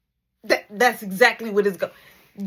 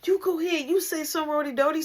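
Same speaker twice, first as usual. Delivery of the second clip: whiny crying; 7 semitones higher, faster than usual. Retold or imitated. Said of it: "huffing and puffing and crying".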